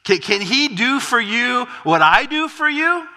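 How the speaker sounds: a paranoid king pleading for loyalty; complaining king. Acted. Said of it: "begins to complain to his troops".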